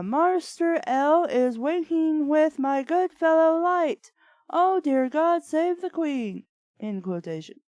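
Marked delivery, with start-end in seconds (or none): 0.0-6.4 hammed-up posh British butler, higher; prissy British butler, pitched up; mock British accent. Reading a fanfic, the butler in hammed-up British accent. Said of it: "Nobody talks like this".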